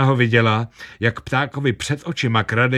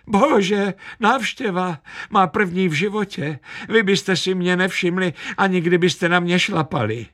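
put-on much higher, thrilled old lady squeal; shrill excited shriek; 9 semitones higher than usual. A narrator's reading. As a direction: squeal it out in delight at the visit. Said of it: "Zaječela". (vysoké vzrušené zaječení)

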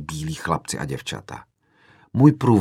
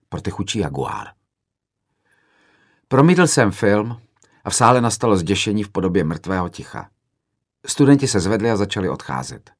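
usual speaking voice

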